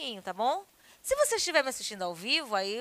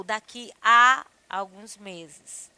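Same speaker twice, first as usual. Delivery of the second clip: slow example; 3 semitones lower, 8 dB louder, much slower than usual. Shown as a demonstration.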